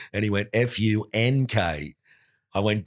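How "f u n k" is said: slow Lancashire spelling-out, lightly imitated; Lancashire accent. The speaker spells his surname for the lodger, Lancashire accent. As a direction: spell it out slowly in mock Lancashire. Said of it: "he had that Lancashire accent".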